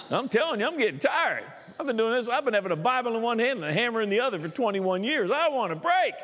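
weary exasperation. Real, not acted. Pastor confessing his weariness.

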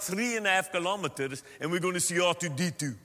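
put-on playful Afrikaans-accented English; joking Afrikaner accent; South African accent. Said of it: "Now that's a South African accent of an Afrikaans".

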